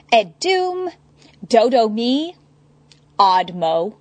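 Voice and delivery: high, loud frantic muttering. Acted. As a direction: spit them out, panicked. Eddie frantic anagrams.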